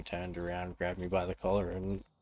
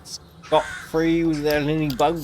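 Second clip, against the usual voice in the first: taunting snake voice; 5 semitones higher, 5 dB louder, slower than usual. Retold or imitated. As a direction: gloat like a smug villain.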